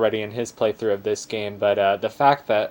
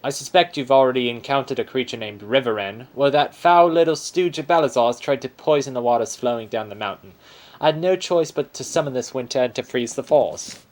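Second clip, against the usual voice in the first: Aussie bear voice; 3 semitones higher, 4 dB louder than usual. Acted. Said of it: "This is an Aussie bear".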